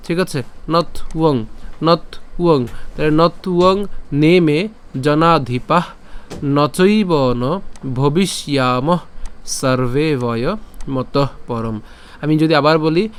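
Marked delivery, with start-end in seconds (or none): 0.7-2.7 "নথ উয়ং" with a gap after not; split pronunciation. Shown as a demonstration. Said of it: "কি বাকি থাকে? উয়ং থাকে". 3.1-11.8 slow, measured shloka chant; Sanskrit verse recitation. Shown as a demonstration.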